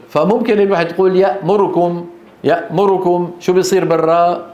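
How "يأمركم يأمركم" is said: يأمركم with the ra vowel clipped short; mispronounced يأمركم, swallowed vowel; snatched vowel. Shown as a demonstration. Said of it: "تخطف، تختلس".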